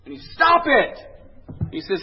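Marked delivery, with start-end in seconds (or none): 0.3-1.0 very high, loud comic shout. Retold or imitated. Psychiatrist to patient afraid to drive, comic shout. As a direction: explode into a high yell. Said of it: "he shouts again".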